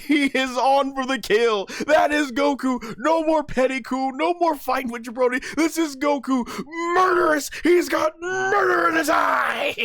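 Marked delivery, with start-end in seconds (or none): 0.0-4.9 high, slowed, hammed-up hype; hyped up. Real, not acted. Fan reacting to Goku going for the kill, high and hyped. 5.5-9.8 excited shout. Real, not acted. Hyped by murderous Goku.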